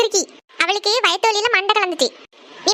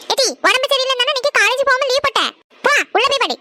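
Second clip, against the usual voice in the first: irritated snapping; 5 semitones higher than usual. Acted. Sister snaps at sister.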